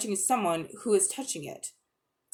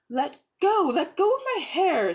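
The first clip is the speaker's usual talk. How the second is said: high, loud furious cry; shouting; 9 semitones higher, 4 dB louder than usual. A narrator's reading. Polly shouting at the witch gripping her hair, high and loud. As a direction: yell at her to let go. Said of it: "said Polly".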